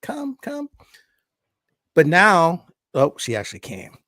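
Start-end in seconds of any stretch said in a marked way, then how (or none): 0.0-0.7 unvoiced high whisper; whispered call. Owner whispering to lure the cat with ham, high whisper.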